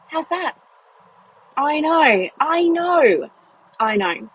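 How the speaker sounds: high giddy, I know I know; bubbling over with glee; giddy disbelief. Real, not acted. Sharing the cottage find with followers, giddy and high. Excited about standalone cottage.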